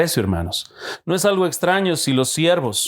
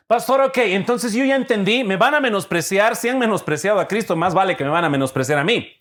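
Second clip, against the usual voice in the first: lightly voiced congregant, higher pitched; eager congregant; 6 semitones higher than usual. Congregant tells the pastor he has understood, lightly acted higher voice. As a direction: pitch it up as a churchgoer reporting back.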